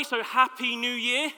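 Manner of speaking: slow, flat greeting; unfriendly. Real, not acted. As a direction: say it without any warmth. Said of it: "It's not very friendly, is it?".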